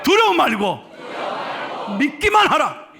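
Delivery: slow, loud, high declaration; loud proclamation. Shown as a demonstration. Pastor leading the church to shout the verse slowly. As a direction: shout it over your problems. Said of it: "크게".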